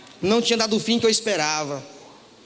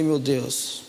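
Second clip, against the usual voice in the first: low, soft, defeated murmur; a quiet, crushed "Meu Deus"; dismayed sigh; 10 semitones lower, 5 dB quieter than usual. Retold or imitated. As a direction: let the words sink out of you. Despair after lawyer's refusal.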